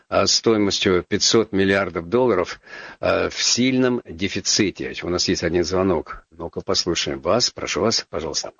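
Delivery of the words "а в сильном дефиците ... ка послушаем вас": normal talking voice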